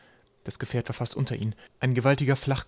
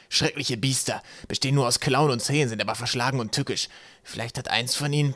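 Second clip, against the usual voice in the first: squashed, slightly strained character voice; muffled voice. A narrator's reading. Trapp describes the dreadful beasts, muffled voice. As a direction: warn them through a stifled voice. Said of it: "mit gedämpfter Stimme".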